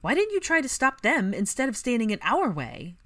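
loud, high angry challenge; fiery demand. Acted. Ginny furious at Draco, loud. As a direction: hurl the question. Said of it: "with fire in her eyes".

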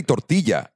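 "tortilla" with a Spanish y sound; proper Spanish pronunciation. Shown as a demonstration. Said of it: "properly like that".

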